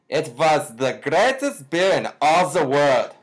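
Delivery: a light put-on German-ish accent; a light German-sounding accent on the beer ad line; mock foreign accent. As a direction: imitate the beer guy's accent loosely. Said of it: "like, an accent".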